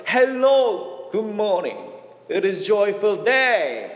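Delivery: drawn-out greeting through a big smile; broadly smiling greeting. Retold or imitated. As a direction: imitate a beaming, slow hello in simple English. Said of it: "활짝 웃으면서".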